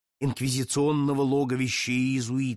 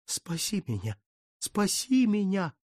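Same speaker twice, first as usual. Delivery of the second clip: mild pleading moan, slowing on the repeat; plaintive moan; 6 semitones higher than usual. A narrator's reading. Count begging the Madonna, a mild plaintive moan. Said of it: "жалобно простонал он".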